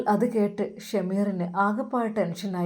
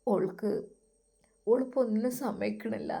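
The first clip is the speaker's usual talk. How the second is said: softer, choked with tears; choked quiet; 2 semitones higher, 6 dB quieter than usual. Acted. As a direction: barely get the words out. Son tearful after crying.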